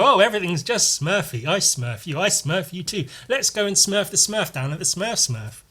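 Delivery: a hint of a chirpy Smurf; lightly sing-song, pleased with everything; mock cheerful cartoon chatter; lightly voiced cheery Smurf. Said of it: "And go".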